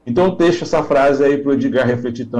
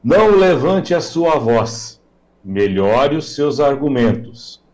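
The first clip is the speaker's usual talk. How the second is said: slow, measured retelling of a father's maxim; lightly voiced father, spacing out the advice; quoted fatherly advice; slower than usual. Guest quotes a father advising his irritated son, slow measured counsel. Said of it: "o pai dele dizia assim".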